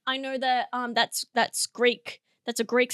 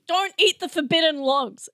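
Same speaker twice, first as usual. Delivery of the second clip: raised-pitch mock warning; mock-firm warning; 4 semitones higher than usual. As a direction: repeat it as a playful firm order. Repeats the joke warning firmly.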